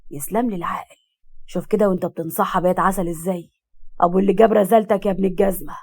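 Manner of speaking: a hint of a low-voiced character; lightly voiced character.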